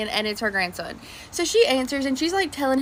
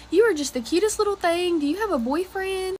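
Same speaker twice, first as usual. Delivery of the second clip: higher, lightly voiced granny; old lady in Walmart asking about a boyfriend, sweet and higher; 5 semitones higher than usual. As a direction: coo it like a doting grandma.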